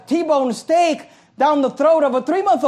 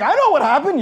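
higher-pitched, emphatic comeback; exasperated retort; 4 semitones higher than usual. Acted. Pastor answering the baffled church member, exasperated retort. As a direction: answer the clueless member as if it were obvious.

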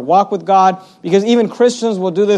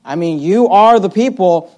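sarcastic. Retold or imitated. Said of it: "He's kinda looking at them and saying".

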